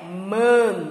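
"man" held with a nasal n at the end. Shown as a demonstration. Teacher showing children the sound of final N, nasalised. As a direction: let "man" close on a hummed n. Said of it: "o N tem esse som de n".

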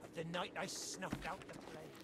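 hushed confession. Acted. Pirate confides dark past.

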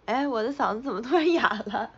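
raspy, hoarse throat. Real, not acted. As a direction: talk with a husky, hoarse throat.

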